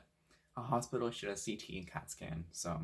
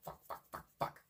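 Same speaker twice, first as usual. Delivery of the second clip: whispered panic; 5 dB quieter than usual. Retold or imitated. Panicked inner cursing.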